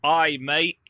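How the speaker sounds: brief, half-hearted go at a Scottish accent; weak token Scottish accent; attempted Scottish accent. Shown as a demonstration. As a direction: try a Scottish accent on request, not very well. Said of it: "Can you do a Scottish accent".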